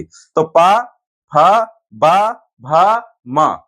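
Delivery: पा, फा, बा, भा, मा said slowly with both lips pressing; lip syllables demo. Shown as a demonstration. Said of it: "पा बोलने में दोनों होठ हमारे लग रहे हैं". (होठ मिलाकर धीरे-धीरे पा, फा, बा, भा, मा)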